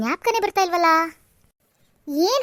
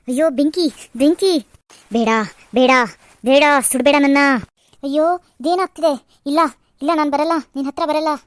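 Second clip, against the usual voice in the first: terrified pleading; 3 semitones lower than usual. Acted. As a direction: plead in panic against the fire. Girl terrified by a vision of fire. (ಭಯದಿಂದ ಬೇಡಿಕೊಳ್ಳುವ ಕೂಗು)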